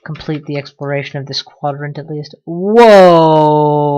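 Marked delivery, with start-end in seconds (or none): 2.4-3.9 loud surprised whoa; big startled exclamation. Real, not acted. Surprise at found loot.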